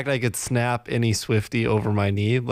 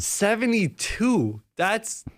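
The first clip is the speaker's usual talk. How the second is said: incredulous; 8 semitones higher, much slower than usual. Real, not acted. Disbelief at roommate's temperature.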